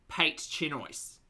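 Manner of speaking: slow broad Australian Pate Chinois, PATE said like pate and Chinois like choy-s; Ocker French. Shown as a demonstration. A host says the dish name in mock Australian French. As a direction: drawl the French the Aussie way. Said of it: "That's how we would pronounce it here in Australia".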